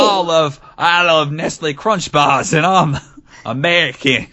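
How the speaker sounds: rough attempt at Cockney, drawn out; amused, half-failed Cockney imitation; Cockney accent. Shown as a demonstration. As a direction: have a shaky go at a Cockney accent. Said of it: "I could do a Cockney one".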